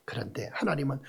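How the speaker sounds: unvoiced whisper; whispered suspense before God's command. Real, not acted. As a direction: drop to a hushed whisper. Hushed lead-in.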